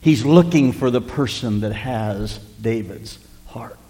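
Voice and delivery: slow, low whisper. Acted. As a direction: whisper it slowly to the whole room. Sermon climax dropped to whisper.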